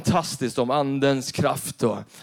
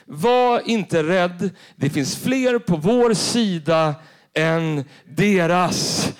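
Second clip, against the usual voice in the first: calm reassurance; much slower than usual. Acted. Elisa calms his servant.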